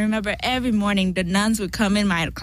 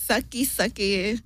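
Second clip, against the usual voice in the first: broken English; 4 dB quieter, slower than usual. Pretend. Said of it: "I could do some broken English as well".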